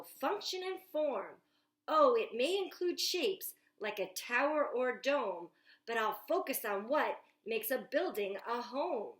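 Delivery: put-on lively picture book read aloud to children; storytime reading. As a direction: read it like story time at the library, bright and eager.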